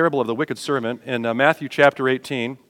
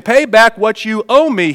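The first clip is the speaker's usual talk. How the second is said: raised, higher angry demand from scripture; forceful demand; 6 semitones higher, 6 dB louder, slower than usual. Acted. Servant grabbing his debtor, forceful demand. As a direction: read it out hard, pressing the debt. Acted demand after choking him.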